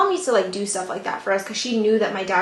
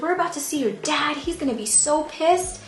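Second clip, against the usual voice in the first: higher-pitched mock scolding without shouting; retold yelling; 5 semitones higher than usual. Mom warning daughter about dad, mock yelling. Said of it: "profusely yelling".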